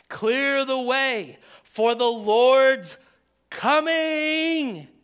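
very slow, loud and high, ringing out; prophetic proclamation. Retold or imitated. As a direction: call it across the wilderness. Prophet's proclamation quoted again.

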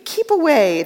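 a frightened ghost recoiling from the angel's heat; pained ghost. Acted. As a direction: flinch back as if scorched. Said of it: "said the ghost".

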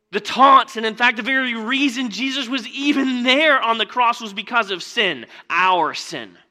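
loud, high, emphatic sermon cadence; preaching at full force. Acted. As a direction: hammer each "alone" from the pulpit. Preaching about sin and grace.

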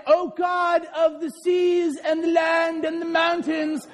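slow, sing-song grand prayer voice; lofty chanted prayer, mocking; mock pompous prayer. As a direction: ham up a flowery churchy prayer. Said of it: "act as if you have to pray".

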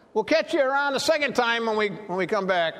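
lightly acted high, quick call; imitating friends calling. Friends putting along to the swimmer left behind, mock calling. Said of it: "I can see them saying".

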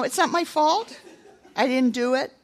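high, laughing imitation of a sulky child; mock the whining with a laugh; mock whiny excuse. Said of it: "sound that way to God".

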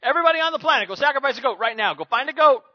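high, whimsical capricious god voice, loud at the end; mock a moody god on a whim; fickle deity. A fickle god ordering the planet to sacrifice goats, whimsical then shouting. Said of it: "fickle deity that says".

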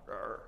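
short low "rrr" growl; mock angry growl. Neighbour angry about dog on lawn, mock growl. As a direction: growl in pretend irritation. Mimics human wrath growling.

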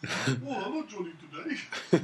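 light mock Indian accent; badly faked Indian accent, played for laughs; Ravi Zacharias. Joking as Ravi greeting Johnny at his house, rough Indian accent. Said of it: "That wasn't a very good accent".

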